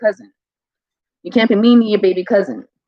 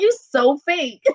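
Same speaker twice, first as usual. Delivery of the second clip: retold teasing; 6 semitones higher, slower than usual. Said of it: "I was like".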